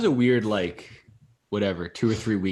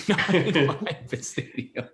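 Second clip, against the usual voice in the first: put-on grumpy old man, slow and scornful; cranky old-timer; 6 semitones higher, much slower than usual. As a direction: play a cranky old coach. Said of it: "back in my day type of vibes".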